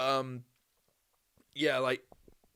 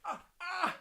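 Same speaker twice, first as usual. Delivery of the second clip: high pained cries; 7 dB quieter than usual. Real, not acted. Another cramp.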